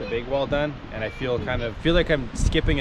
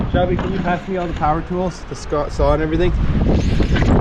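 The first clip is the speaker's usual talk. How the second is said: shouting over wind; 5 semitones higher, 7 dB louder than usual. Real, not acted. Calling to Shelby over wind.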